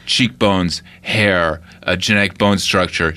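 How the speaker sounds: lightly voiced tough guy, low and flat; Seagal impression. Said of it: "And he goes".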